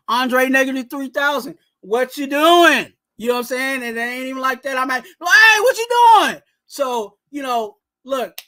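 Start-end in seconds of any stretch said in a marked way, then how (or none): 1.8-2.9 loud, drawn-out heckle; yelling at TV. Retold or imitated. Fan calling out a player during the game, yelling. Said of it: "I'm yelling at the T V". 5.0-6.4 much higher, loud squawked heckle; high-voiced yell. Fan yelling at players on TV, high-pitched shout. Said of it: "where Twan getting the high voice".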